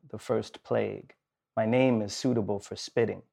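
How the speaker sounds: measured, slightly subdued poetry recital; poem reading. Acted. Host reads a poem to close the show, subdued recital.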